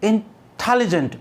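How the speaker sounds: इंटेलिजेंट joined up, prominence on TEL; stress on second syllable. Shown as a demonstration. Teacher answers how to say इंटेलिजेंट, stress on second syllable. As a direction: make the टे stand out in इंटेलिजेंट. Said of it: "इसको बोलने का तरीका क्या है".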